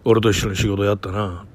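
a hint of a low, terse movie tough guy; Takakura Ken style. The boss quizzing his junior, in a lightly voiced Takakura Ken manner. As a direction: lightly play a stoic film star, clipped and grave. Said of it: "高倉健みたいな、こんな口調で".

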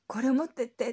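a hurried shout of "here, take this"; retold chase-down call. Shop woman chasing, calling out.

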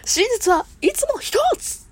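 put-on slow, high boyish declaration; Conan impression. Streamer imitating Conan's catchphrase, high and slow. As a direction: announce it slowly like the boy detective. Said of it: "コナンか".

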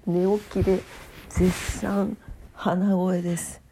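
stuffy nose, just woken up; nasal voice. Real, not acted. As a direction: talk through a blocked nose.

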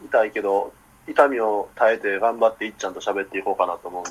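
talking through jaw pain; after wisdom teeth. Real, not acted. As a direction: sore mouth, a bit low. (親知らずの痛みをこらえて話す)

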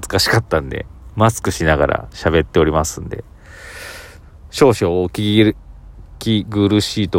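muffled behind a mask; through a face mask. Real, not acted. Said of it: "声がこもってると思うんですけど".

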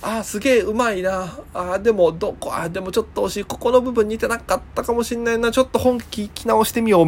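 lightly acted viewer, half impressed, half picky; musing impressionist-show viewer. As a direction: quietly think aloud as a picky viewer. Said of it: "モノマネ番組とか見てて".

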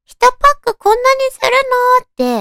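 high, loud shocked question; shocked surprise. Retold or imitated. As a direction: gasp at the price. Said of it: "びっくりしたのを今でも覚えてる".

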